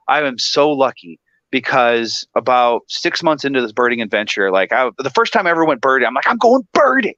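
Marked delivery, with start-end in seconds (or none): 6.3-7.1 high, bright self-quote; a touch of giddy excitement; mock excited chirp. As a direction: play your eager younger self. Retelling own excited thought.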